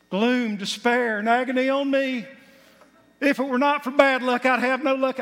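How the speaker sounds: country twang. Pretend. Preacher mimicking a Southern Hee Haw lament for the congregation, twangy. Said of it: "I'm trying to do my twang".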